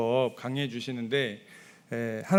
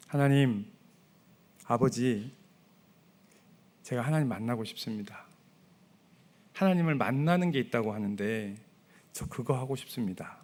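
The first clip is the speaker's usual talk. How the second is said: softer, quiet, earnest plea to a father; simple sincere prayer; 4 semitones lower, 5 dB quieter than usual. Shown as a demonstration. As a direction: pray it softly like a child asking. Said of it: "이렇게 기도하십시오".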